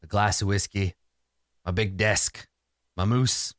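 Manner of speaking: unhurried list of simple pleasures; contented homebody. Acted. Man of habit answering a visitor, unhurried character voice. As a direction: settle into the character's easy ways.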